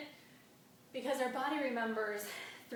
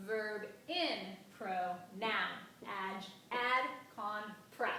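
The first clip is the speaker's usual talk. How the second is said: rhythmic count stressing "in", "noun", "ad", "prep"; even beats, leaning on "in", "noun", "ad", "prep"; accent every second syllable; much slower than usual. Shown as a demonstration. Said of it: "It's going to sound like this".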